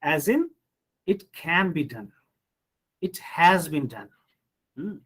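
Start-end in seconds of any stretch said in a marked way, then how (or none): 1.1-2.1 emphatic "can" in a falling statement; stress on CAN. Shown as a demonstration. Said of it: "auxiliary verbs can be stressed if". 3.0-4.1 emphatic "has", falling away after it; stress on HAS. Shown as a demonstration. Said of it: "auxiliary verbs can be stressed if".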